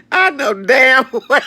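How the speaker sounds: high, loud, slow indignant outburst; mock outrage. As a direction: let it burst out in disbelief. Retold outrage.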